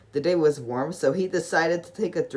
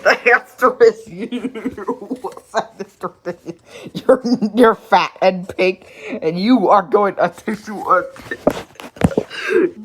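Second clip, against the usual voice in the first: loud, higher, slow gloating answer; gleeful triumph; 5 semitones higher, 8 dB louder, slower than usual. Acted. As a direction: gloat over the pig. Dizzy gleefully gives answer.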